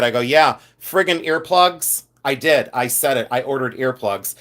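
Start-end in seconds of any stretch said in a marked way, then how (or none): 0.2-2.0 slow, drawn-out reply; retold order, dragged out slowly; deadpan drive-thru order. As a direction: stretch each word out for emphasis. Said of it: "I said it just like that".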